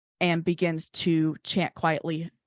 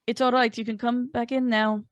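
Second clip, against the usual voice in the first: a slightly higher, lightly Scottish lilt; a botched Scottish accent; 5 semitones higher than usual. Acted. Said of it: "messes my Scottish accent up so badly".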